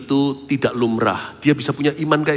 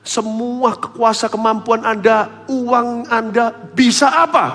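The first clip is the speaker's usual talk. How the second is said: slow emphasis; 10 semitones higher, 4 dB louder, much slower than usual. Real, not acted.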